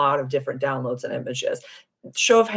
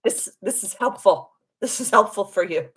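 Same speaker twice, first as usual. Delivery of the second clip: spirit guides; 5 semitones higher than usual. Acted. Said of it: "They're like".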